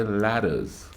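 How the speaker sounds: "ladders" said slowly with a soft D for the T; American soft T. Shown as a demonstration. Man quoting the store's name as locals say "ladders", soft D. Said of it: "but they say".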